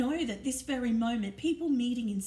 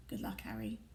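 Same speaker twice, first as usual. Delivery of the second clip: softer, hushed farewell; soft murmur; 2 semitones lower, 6 dB quieter than usual. A narrator's reading. Dumbledore bidding baby Harry goodbye on the doorstep, soft murmur. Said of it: "he murmured".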